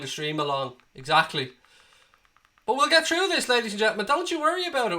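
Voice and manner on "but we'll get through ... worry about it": rallying cheer. Acted. Rallying the stream viewers.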